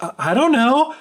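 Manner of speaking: high, stammered mock innocence; lightly acted nervous stammer; scared. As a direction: imitate a frightened wife denying it. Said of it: "because she's so scared".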